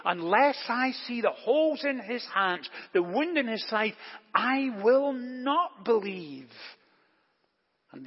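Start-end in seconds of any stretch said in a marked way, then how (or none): 0.1-6.5 firm, deliberate insistence, slowing on the last words; emphatic. Retold or imitated. Thomas insisting to the other disciples, emphatically. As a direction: lean hard on each condition, mildly acted. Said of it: "he says emphatically".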